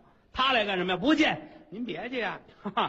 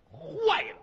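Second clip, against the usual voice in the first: alarmed cry. Acted. Minister bursts in with bad news.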